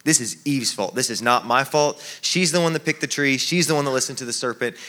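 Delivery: mildly accusing, shifting the fault; defensive finger-pointing, lightly acted; blaming Eve. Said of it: "assigning blame towards Eve".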